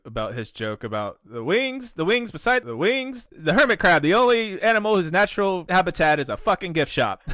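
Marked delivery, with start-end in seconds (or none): 1.4-7.2 Clinton Orr. Acted. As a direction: rattle it off as a high-pitched tribute. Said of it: "I was gonna do a, a little Clinton Orr tribute".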